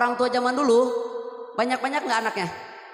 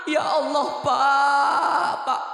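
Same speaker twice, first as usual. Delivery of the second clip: mother crying out; 3 semitones higher, 4 dB louder, much slower than usual. Retold or imitated. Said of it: "Nangis, Bunda, nangis".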